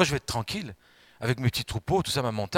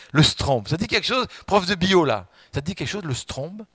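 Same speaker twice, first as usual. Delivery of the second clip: playful teasing; 5 semitones higher, 4 dB louder than usual. Real, not acted. Teasing the biology teacher.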